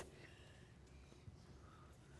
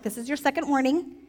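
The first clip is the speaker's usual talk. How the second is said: mom warning. Acted. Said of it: "Does that sound kinda like a mom".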